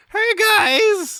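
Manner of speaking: very high, loud, voice-cracking call. Joking about a fan headcanon for the books, doing Percy's cracking voice. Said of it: "with his crackling voice".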